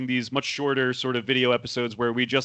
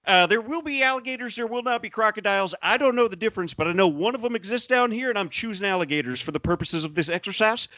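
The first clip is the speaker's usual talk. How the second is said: higher-pitched Southern tour guide, easing down; swamp tour guide; 4 semitones higher than usual. Acted. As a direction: field tourists' questions like an old-timey swamp guide. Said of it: "do him, like, as a weird impression".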